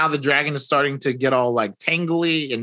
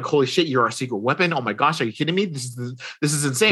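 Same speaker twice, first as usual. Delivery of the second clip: excited rush; much faster than usual. Retold or imitated. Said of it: "Reed is freaking out".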